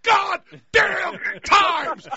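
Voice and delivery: high, anguished mock newscast; Hindenburg disaster reporter. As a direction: wail it like a horrified eyewitness broadcaster. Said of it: "it's like the Hindenburg exploded".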